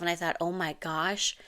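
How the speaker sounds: breathy, stunned whisper to herself; shocked whisper. Retold or imitated. Mom catching herself repeating her parents, whispering in shock. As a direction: gasp it out under your breath.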